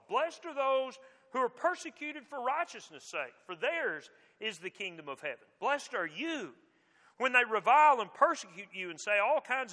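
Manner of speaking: measured reading, lifting each opening phrase and letting its close fall; scripture recitation. Acted. Preacher reciting the Beatitudes to a congregation, measured scripture recitation.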